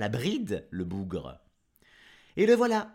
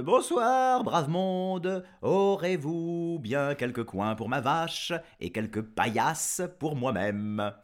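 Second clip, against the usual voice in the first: voyageur poli; 2 semitones higher, 3 dB louder than usual. Acted. Jean-Jean demande un logis.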